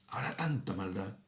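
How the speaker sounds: quiet, sorrowful echo of "tanta maldad"; hushed repeat. Shown as a demonstration. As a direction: drop the voice on "habrá tanta maldad". Same verse repeated softer.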